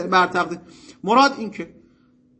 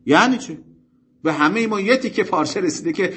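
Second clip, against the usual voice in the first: mildly raised voice, imitating an objector; higher-pitched mock protest; retold shouted protest; 4 semitones higher than usual. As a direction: challenge him like a heckler, half-heartedly shouted. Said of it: "داد زد سرش، فریاد زد که".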